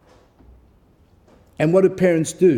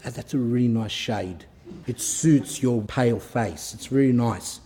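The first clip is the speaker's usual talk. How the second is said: mock fawning parent; 4 semitones lower, 4 dB quieter than usual. Mocking an indulgent parent.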